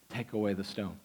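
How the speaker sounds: low, quiet Jesus voice; hushed command. Acted. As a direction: say it softly but firmly.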